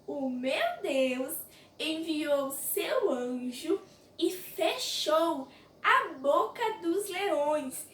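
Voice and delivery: slow, measured proclamation with long-held words; lightly voiced Daniel, solemn. Daniel answering the king from the den, slow and solemn. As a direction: declare it slowly, word by word.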